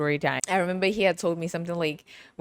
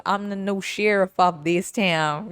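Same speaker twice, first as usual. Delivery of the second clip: slow, lightly played cowboy lawman; mock sheriff; slower than usual. Telling boss what he surely did, mock sheriff. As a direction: stretch it out like a movie sheriff. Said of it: "you did a little".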